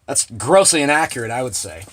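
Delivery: dry, understated sarcasm, trailing off low and soft; deadpan mock criticism; sarcastic. Real, not acted. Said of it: "Note my sarcasm".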